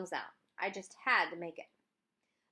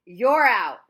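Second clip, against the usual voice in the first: loud, in-your-face shouted call; scream; 3 semitones higher, 15 dB louder than usual. A narrator's reading. Umpire screaming the call in the boy's face. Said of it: "leaned right down in my face and screamed".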